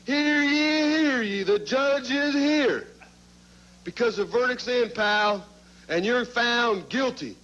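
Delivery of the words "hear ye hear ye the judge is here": town crier call. Pretend. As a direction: announce the judge like a herald. Announcing the judge like crier.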